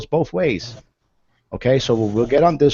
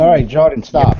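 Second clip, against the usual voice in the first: loud; 2 semitones higher, 8 dB louder than usual. Real, not acted. Cuts off the apology.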